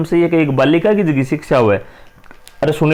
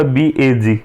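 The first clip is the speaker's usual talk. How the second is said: slow spelling; 4 semitones lower, much slower than usual. Shown as a demonstration. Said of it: "एक spelling हुआ बीईजी".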